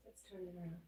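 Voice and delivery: hushed, almost under the breath. Shown as a demonstration. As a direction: drop to a near murmur. Repeated much softer.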